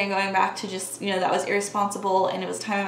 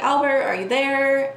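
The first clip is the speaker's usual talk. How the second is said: retold yell; 5 semitones higher, 3 dB louder than usual. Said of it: "I yell out".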